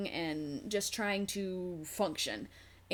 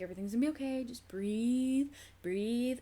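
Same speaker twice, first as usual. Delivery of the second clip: soothing nurse; 4 semitones higher than usual. Retold or imitated. Nurse rubbing her back soothingly.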